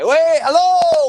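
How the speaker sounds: high, slow startled hello; a drawn-out, hammed-up hello; mock surprise. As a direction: act caught off guard by the camera. Mock startled greeting to audience.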